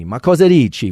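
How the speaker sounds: Italian phrase sung out high with a big falling tune; lively Italian lilt, dropping at the end. Shown as a demonstration. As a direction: show off the rise and fall of Italian. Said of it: "There's a lot of lilt and fall in Italian".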